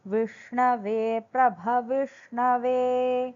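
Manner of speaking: slow, measured Sanskrit chant; over enunciating. Acted. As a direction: recite every syllable carefully and slowly. Sanskrit verse recited before translation.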